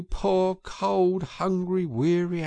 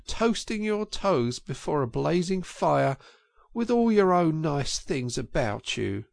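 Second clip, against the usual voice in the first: doleful self-reproach; 8 semitones higher than usual. A narrator's reading. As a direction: blame yourself mournfully. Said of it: "his doleful self-reproaches".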